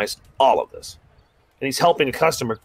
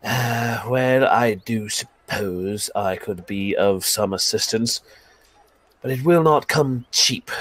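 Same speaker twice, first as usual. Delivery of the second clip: slow, measured, a hint of condescension; lightly voiced haughty elf; slower than usual. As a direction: drawl out the terms like a snob. Elf sets his price.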